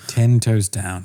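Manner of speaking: put-on British echo of the slang; British accent. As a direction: say the slang in restrained mock British. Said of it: "but in a British voice".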